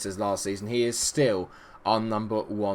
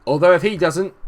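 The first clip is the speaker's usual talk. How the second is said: usual speaking voice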